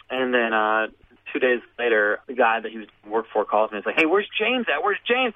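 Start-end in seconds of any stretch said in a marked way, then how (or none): 4.0-5.3 high-pitched, searching question; puzzled caller. Retold or imitated. Employer calls teller about his missing worker, puzzled. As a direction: imitate a boss wondering, pitched well up.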